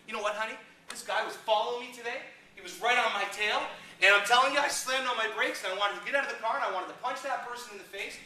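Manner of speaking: hammed-up road-rage retelling; mock rant. Dad venting to his daughter about a tailgater, mock angry.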